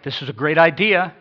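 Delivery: hammed-up delight at a great idea; mock enthusiasm. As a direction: play the wrong, over-keen reading. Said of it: "Not like".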